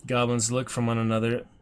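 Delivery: measured storyteller read, calm; gamebook narration. A narrator's reading. Streamer reading the gamebook aloud, steady storyteller voice. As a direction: read the marsh scene to viewers.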